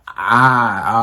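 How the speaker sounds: loud mock scream; brief loud "ah", imitating screaming; imitated scream. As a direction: act out a short scream. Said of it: "she was screaming".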